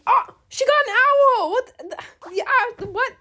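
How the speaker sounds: jealous surprise at a friend's rare pet; surprised. Real, not acted. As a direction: caught off guard. Friend shows she has owl.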